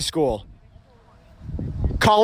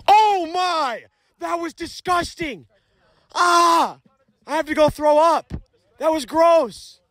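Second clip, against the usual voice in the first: disgusted; 6 semitones higher, slower than usual. Real, not acted. Reacting to a gross hit-by-pitch.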